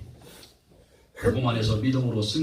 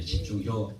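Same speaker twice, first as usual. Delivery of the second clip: Chungcheong dialect; 3 semitones lower, 4 dB quieter, much slower than usual. Shown as a demonstration. Preacher telling listeners to focus, amused Chungcheong accent. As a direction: lower Chungcheong accent with a laugh. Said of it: "충청도 말로는요?".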